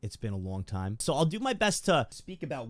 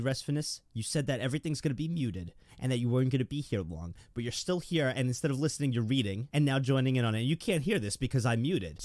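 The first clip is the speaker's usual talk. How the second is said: ordinary talk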